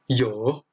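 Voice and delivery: yo dipping down then rising back up; third tone. Shown as a demonstration. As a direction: yo with the falling-rising Mandarin third tone. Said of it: "on monte et on descend et on remonte".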